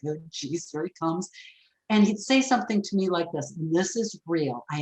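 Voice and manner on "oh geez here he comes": annoyed groan. Retold or imitated. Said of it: "I could already feel the annoyance creep up".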